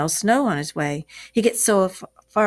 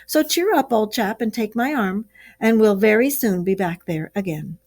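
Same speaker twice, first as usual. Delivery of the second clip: raised, hearty encouragement; hearty Rat; 4 semitones higher, 3 dB louder than usual. Acted. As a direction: cheer your friend up, a bit louder and higher. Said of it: "said the Ratty heartily".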